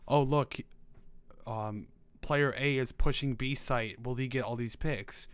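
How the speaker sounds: dull, slow play-by-play; monotone commentary. Shown as a demonstration. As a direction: read it out like you don't care. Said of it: "commentate on what's happening in a monotone voice".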